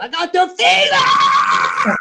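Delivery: very high, very slow, stretched-out shrieking shout. Retelling walking into a casino door: imitating his own scream. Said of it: "I just do that".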